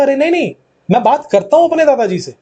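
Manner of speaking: lightly insisting he really talks; a hint of stubborn protest; emphatic insistence. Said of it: "मैंने बोला". (हल्का ज़ोर देकर ज़िद)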